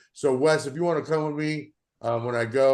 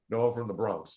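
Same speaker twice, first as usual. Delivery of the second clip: softer, half-laughing Bronx accent imitation; lightly mock a proud Bronx woman's New York accent; 5 semitones lower, 7 dB quieter than usual. Retelling a hospital call, imitating the Bronx agent's New York accent. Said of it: "the strongest New York accent from a girl".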